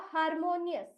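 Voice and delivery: harmonious said as a pronunciation model; harmonious sounded out. Shown as a demonstration. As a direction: pronounce harmonious as "har-mo-nius". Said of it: "इस शब्द का उच्चारण होगा".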